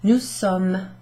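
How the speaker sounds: "sommes" said like Somme, final s silent; pronunciation model. Shown as a demonstration. Teacher modelling "sommes" like Battle of the Somme, clear pronunciation. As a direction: say "sommes" as one syllable ending in m. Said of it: "Pronounce like the word Somme".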